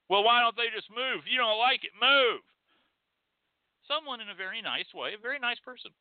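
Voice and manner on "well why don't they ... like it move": mock dismissive retort. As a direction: brush them off like a smug critic. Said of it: "imagined critics' retort".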